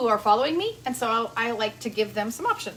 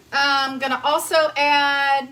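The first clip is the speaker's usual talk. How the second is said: laughing; 5 dB louder, slower than usual. Real, not acted. Laughing after jar struggle.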